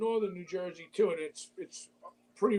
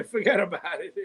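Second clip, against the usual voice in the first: laughing. Real, not acted. Repeats friend's Brooklyn punchline.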